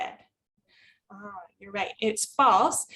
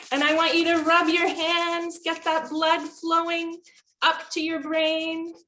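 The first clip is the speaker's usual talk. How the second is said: higher-pitched, sustained instructor chant; coaching a stretch; 4 semitones higher than usual. Retold or imitated. Teacher getting students to rub their hands, higher coaching voice. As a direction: keep the class moving along.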